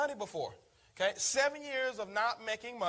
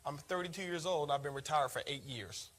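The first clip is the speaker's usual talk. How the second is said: softer, lower, unhurried; calm and easy; 7 semitones lower, 5 dB quieter than usual. Retold or imitated. Retired man telling the caller his age, calm and easy. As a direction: say it easy, like it's nothing special. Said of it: "I heard this calm and easy".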